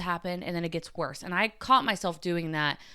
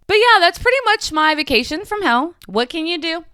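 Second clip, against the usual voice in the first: wry resignation; 10 semitones higher, 8 dB louder than usual. Real, not acted. Wry wrap-up of bad trip.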